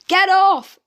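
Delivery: loud, high panicked scream; a full-throated "Get off!". A narrator's reading. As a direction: scream it as the cat claws your back. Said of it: "screamed Dad".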